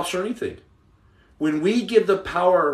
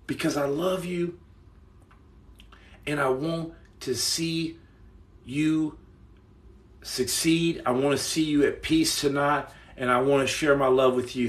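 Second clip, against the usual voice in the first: tender and soft; 2 semitones lower, 4 dB quieter than usual. Real, not acted. Streamer tells a viewer he loves them, softly and tenderly. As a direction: say it gently, like a hand on the shoulder.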